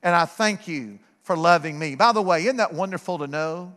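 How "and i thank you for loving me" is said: simple prayer. Retold or imitated. Preacher recalls his childhood prayer to Jesus, low simple praying. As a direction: pray simply, low and restrained. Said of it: "praying a very simple prayer".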